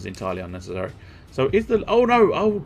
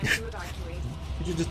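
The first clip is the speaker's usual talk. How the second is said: laughing; 8 semitones higher, 7 dB quieter, much slower than usual. Real, not acted. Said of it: "did you just slap your stomach".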